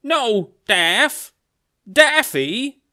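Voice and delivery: high, loud anguished cry; crying Bugs Bunny. Acted. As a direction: call out to a fallen loved one in hammed-up grief. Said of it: "we have a crying Bugs Bunny on his knees".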